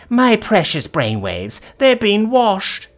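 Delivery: high, loud and slow melodramatic British lament; posh mock British accent. A narrator's reading. Valerie faking brainwashing in a melodramatic posh British accent. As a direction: ham up a British farewell to the world. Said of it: "in a posh mock British accent".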